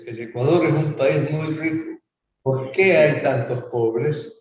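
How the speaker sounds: measured political spot delivery, question drawn out slowly; campaign ad voice-over. Retold or imitated. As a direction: re-enact your campaign voice-over. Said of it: "se oía mi voz que dice". (voz de spot electoral)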